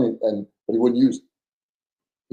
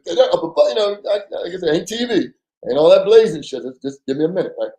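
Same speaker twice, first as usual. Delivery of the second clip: higher, pressed urgent plea; urgent warning; 4 semitones higher than usual. Retold or imitated. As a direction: hold him back fast and tense. Urgently hushing armed partner.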